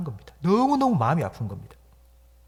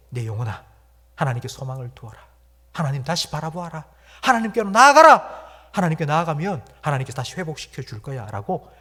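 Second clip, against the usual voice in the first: self-encouragement; 4 dB louder than usual. Acted. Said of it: "스스로를 격려".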